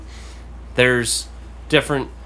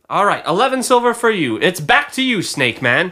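higher-pitched auctioneer voice; 8 semitones higher than usual. Acted. Auctioneer passing the bid back to Snake Man, high-pitched patter. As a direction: work the room like an auctioneer.

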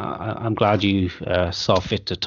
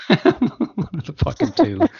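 laughing through the words; chuckling it out, slowly; 9 semitones higher, 4 dB louder, slower than usual. Real, not acted. Laughs at his own joke.

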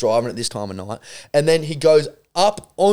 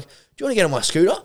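quick slurred mock-drunk offer, pitched up; slurring drunk; 5 semitones higher, much faster than usual. Drunk guy offering him a lift, slurred. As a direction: imitate a drunk running his words together. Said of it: "he was just, like, slurring his words".

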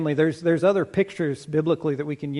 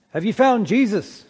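lightly acted preacher, higher and louder; eager preacher; 6 semitones higher, 5 dB louder than usual. Preacher asks the man after a dunking, eager question. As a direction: press the question like a hopeful preacher.

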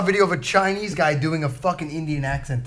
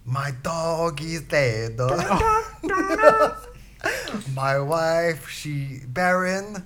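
blues voice; 4 semitones higher than usual. Acted. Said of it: "him attempting a blues voice".

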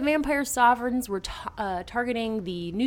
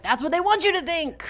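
knowing Vincent; 8 semitones higher, 4 dB louder than usual. Retold or imitated. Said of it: "he's like".

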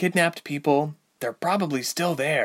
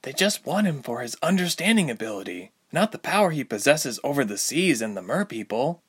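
higher insistent heroine; 6 semitones higher than usual. A narrator's reading. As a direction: press the point, insisting. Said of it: "Ilse insisted".

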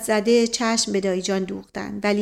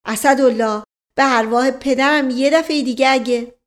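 shout; 3 semitones higher, 5 dB louder than usual. Acted. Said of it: "فریاد زد".

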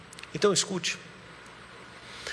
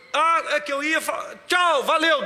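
mock hurried pray-er; 7 semitones higher than usual. Mimicking pray-er cut off, leaving.

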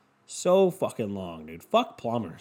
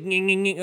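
mock saw noise; 7 semitones higher than usual. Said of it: "again with the saw".

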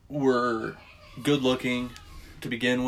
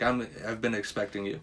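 lightly ominous shopkeeper; 2 semitones lower, 7 dB quieter than usual. Retold or imitated. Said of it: "he was like".

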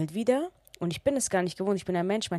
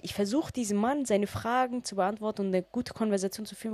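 ordinary talk, nothing marked

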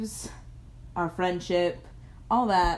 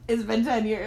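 surprised shout. Real, not acted. Realizing how long they've been friends.

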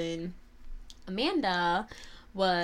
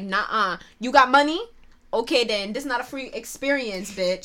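tough bouncer; 3 semitones higher, 7 dB louder than usual. Pretend. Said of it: "'Cause I'd be like".

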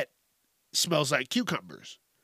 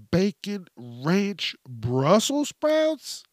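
savoring; 5 semitones higher, much slower than usual. Real, not acted. Savoring a food idea.

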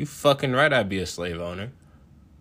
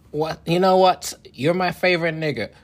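high, loud gushing president voice; mock president; 7 semitones higher, 5 dB louder than usual. The president praising him, mock gushing. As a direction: gush like a starstruck president.

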